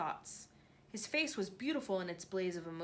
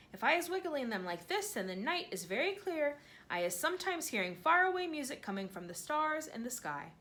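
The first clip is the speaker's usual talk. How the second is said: higher, wondering giant voice; a giant marvelling at tiny things; lightly voiced awed giant; BFG voice; 6 semitones higher than usual.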